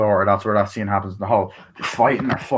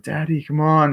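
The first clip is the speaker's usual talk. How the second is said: mock child's call; 5 semitones higher than usual. Voices child on the roof.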